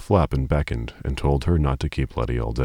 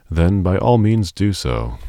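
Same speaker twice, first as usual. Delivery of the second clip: laughing; 6 semitones higher, 5 dB louder than usual. Acted. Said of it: "laughed this advanced young man".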